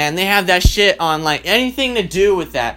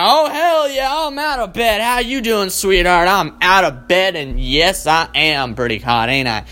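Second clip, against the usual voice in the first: eager wake-up. Pretend. Guy answering the sexy alarm clock with swagger. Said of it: "I'd be like".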